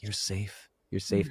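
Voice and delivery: put-on quietly calm the scared child within; soothing reassurance. Comforting his younger self in the mirror, soft and tender. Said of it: "I'm like".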